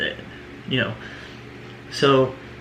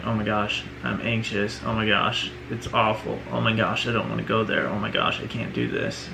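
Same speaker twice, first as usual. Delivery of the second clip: anxious self-talk; 3 semitones lower, 6 dB quieter, faster than usual. Retold or imitated. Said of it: "the disservice of going".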